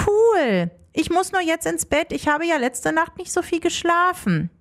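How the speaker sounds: put-on girl Leonie.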